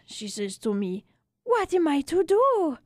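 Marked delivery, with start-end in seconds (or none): 1.4-2.8 high, helpless question; pleading widow. Acted. Widow asking the narrator what to do, high and helpless. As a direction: ask it as a widow at her wits' end.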